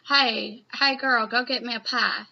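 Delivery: loud country-accent demo. Shown as a demonstration. Reviewer guessing Ochaku's dialect in English, mock country accent. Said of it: "it's gotta be a country accent".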